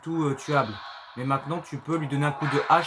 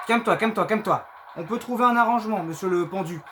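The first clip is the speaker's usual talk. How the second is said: panicking gamer; 4 semitones higher than usual. Real, not acted. Pleading with monster in panic.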